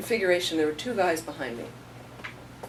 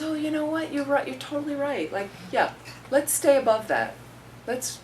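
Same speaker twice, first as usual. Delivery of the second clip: eager agreement; 10 semitones higher than usual. Retold or imitated. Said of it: "she goes".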